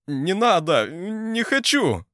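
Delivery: very high, loud, drawn-out pleading wail; desperate screech. A narrator's reading. Stimid begs the Varangians not to torture him, screaming. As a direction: beg for your life, screaming. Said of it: "Стимид заверещал пуще прежнего".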